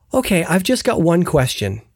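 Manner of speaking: slow, measured, pleasantly composed questions; very calm voice. Retold or imitated. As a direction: imitate someone calmly asking, words drawn out. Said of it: "in a very calm voice".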